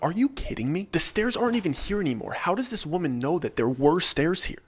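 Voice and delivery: can't believe what you just heard; disbelief. Retold or imitated. Camper reacting to the woman's talk of stairs, incredulous. Narrator's disbelieving inner outburst.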